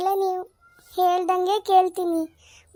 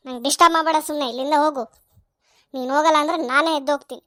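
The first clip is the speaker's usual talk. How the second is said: bratty retort; 3 semitones lower, much faster than usual. Acted. Son snaps at nagging mother.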